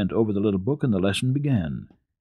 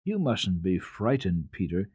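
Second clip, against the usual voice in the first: gently calm a scared friend; comforting. Acted. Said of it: "she said comfortingly".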